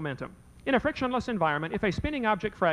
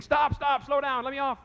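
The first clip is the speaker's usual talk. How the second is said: mock scream of scared kids; 6 semitones higher, slower than usual. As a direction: play the kids begging to get off, hammed-up. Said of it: "now they're gonna be screaming".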